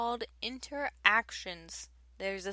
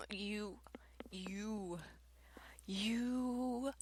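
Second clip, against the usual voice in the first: whispered stammer; 10 dB quieter, much slower than usual. Real, not acted. Whispered fumbling before singing.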